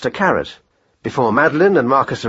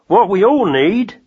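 lightly voiced rat-catcher, higher and unhurried; Jim's voice; 7 semitones higher, slower than usual. A narrator's reading. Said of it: "said Magnus".

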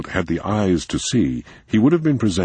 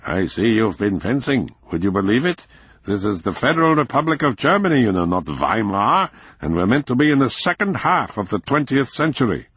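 grumbling landlord; 6 semitones higher than usual. A narrator's reading. Landlord complaining.

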